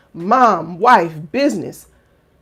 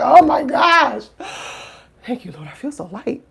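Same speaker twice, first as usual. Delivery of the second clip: acted relief; 3 semitones higher, 4 dB louder than usual. Playing someone finally letting it out, hammed-up relief. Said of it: "And then you let it out".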